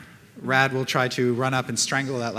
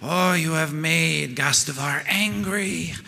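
slow, menacing villain voice; a hint of a threatening fiend; tiefling voice; 2 semitones higher, slower than usual. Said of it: "The tiefling says".

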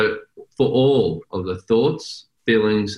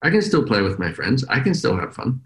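put-on carefree kid voice; 4 semitones higher than usual. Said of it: "I like his attitude".

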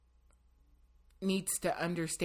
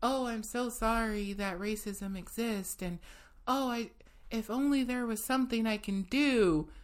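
higher-pitched, mock weepy lament; mock tearful apology; 5 semitones higher than usual. Guest imitates people giving tearful apologies, mock weepy. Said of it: "you're crying and you saying".

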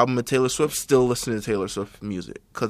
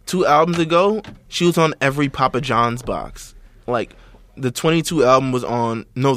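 louder exasperated rant; 7 dB louder than usual. Real, not acted. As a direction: rant it like you're fed up. Ranting about a singer everywhere.

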